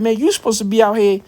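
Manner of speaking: imitating her scolding him to fight; a hint of the girlfriend egging him on; mock girlfriend voice. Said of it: "She's like".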